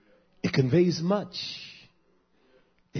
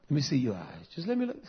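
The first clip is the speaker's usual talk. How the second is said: imitating wife; faster than usual. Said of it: "I hate it when my wife does that".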